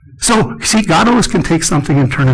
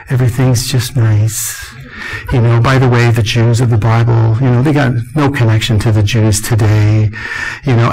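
soft-spoken imitation; 4 semitones lower than usual. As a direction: hush it down like the mild-mannered pastor. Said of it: "and he speaks like this".

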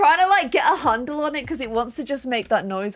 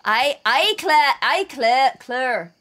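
trying "Claire" in a Scottish accent; practising a Scottish pronunciation of Claire; Scottish accent attempt; slower than usual. Shown as a demonstration. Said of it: "How would you say Claire in a Scottish accent?".

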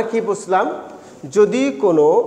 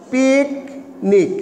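পিকনিক drawn out slowly, syllable by syllable; much slower than usual. Shown as a demonstration. Teacher showing students পিকনিক slowly, drawn out. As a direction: stretch পিকনিক slowly so students hear each part. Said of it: "একটা শব্দ".

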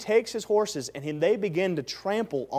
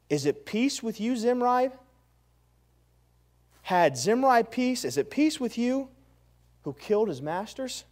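taunting; 5 semitones higher than usual. Acted. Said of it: "smack talk".

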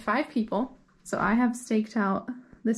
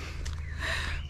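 breathless laugh; 11 dB quieter than usual. Real, not acted. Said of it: "I'm out of breath".

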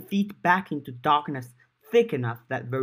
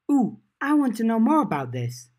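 excited; 8 semitones higher, 3 dB louder than usual. A narrator's reading. Eager girl interrupts with curiosity.

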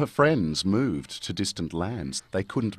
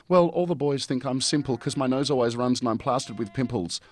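whiny Stans; 4 semitones higher, faster than usual. Acted. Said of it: "Stan said".

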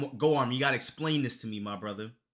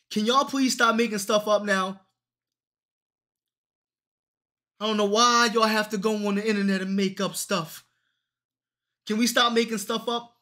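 exasperated plea; 7 semitones higher, 6 dB louder than usual. Real, not acted. Ranting at fans inventing backstory.

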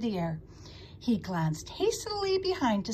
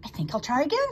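higher, lightly upbeat; cheerful; 5 semitones higher, 4 dB louder, faster than usual. A narrator's reading. Pig resolves to try spinning once more, cheerful. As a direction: bounce back cheerfully. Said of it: "said Wilbur cheerfully".

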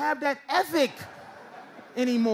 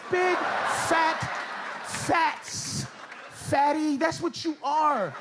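mocking taunt; 4 semitones higher, much slower than usual. Taunting fat people.

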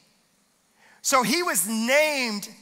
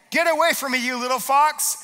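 defiant rebuke; 3 semitones higher than usual. Pretend. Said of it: "rise up and say".

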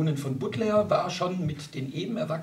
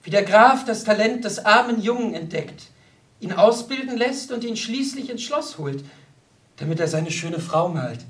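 mildly declaimed tale; a touch of poetic rapture; poetic recitation; 5 semitones higher, 5 dB louder than usual. A narrator's reading. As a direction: tell it like a verse recital. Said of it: "als rezitiere sie ein Gedicht".

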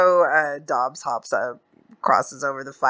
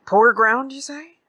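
"Poor ground" pitched high, rising into a question; questioning echo; 10 semitones higher, 4 dB louder than usual. Retold or imitated. Stranger querying the old man, "Poor ground" lifted questioningly.

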